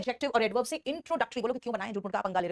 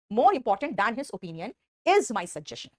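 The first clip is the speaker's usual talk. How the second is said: "more important than his opinion is my suggestion" said very slowly; slow dictation; much slower than usual. Shown as a demonstration. Teacher reading the full inverted sentence, slowly. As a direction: dictate each word slowly for copying. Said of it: "is my suggestion लगाएंगे".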